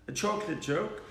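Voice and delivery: usual speaking voice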